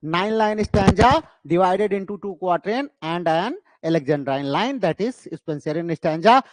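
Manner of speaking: slow, measured model answer; slow dictation. Shown as a demonstration. Teacher modelling an exam question and answer slowly. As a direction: lay out question and answer word by word. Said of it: "तो आपसे कोई पूछे".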